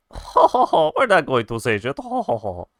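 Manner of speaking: taunting schoolboys refusing to talk; mocking ho ho. Boys taunting, refusing to tell.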